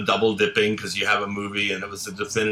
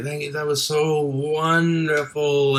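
gushing thanks; 5 semitones higher, slower than usual. Retold or imitated. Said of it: "call and say".

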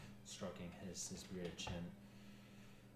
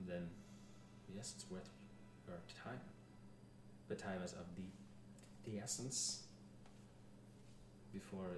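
put-on measured, halting French-accented advisor; a light French accent, weighing each thought; 4 dB quieter than usual. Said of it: "I was doing a French accent".

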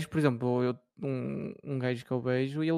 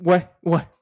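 mock French filler; 3 semitones higher, 9 dB louder, much slower than usual. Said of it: "ele é assim".

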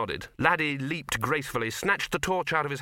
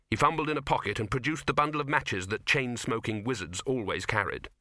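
plain reading voice

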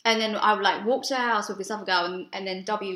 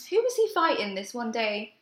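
normal talking voice

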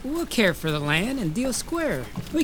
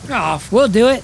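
loud reluctant; 2 semitones higher, 7 dB louder than usual. Acted. Worker giving in under pressure.

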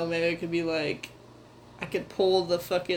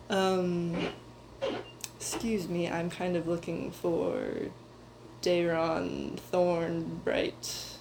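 a lightly voiced polite young man, less gruff; softer and more refined than his usual gruff talk, only a touch; lighter refined voice; 5 dB quieter than usual. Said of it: "not as kind of gruff as he normally talks, a little lighter, a little bit more refined".

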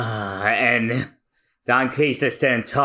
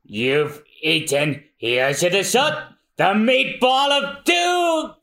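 hammed-up battle cry; 4 semitones higher, slower than usual. Cook firing at the pirate, building to a shout. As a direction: announce the attack with flair. Patty fires his cannon.

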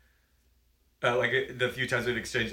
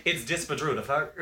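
seething anger. Shown as a demonstration. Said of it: "you have to say it like you're mad".

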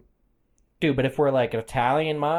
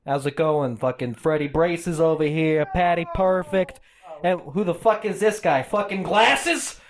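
mob boss. Acted. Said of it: "you play the mob boss".

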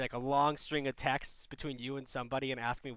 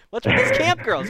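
surprised; 12 dB louder than usual. Real, not acted. Host baffled by another camp story.

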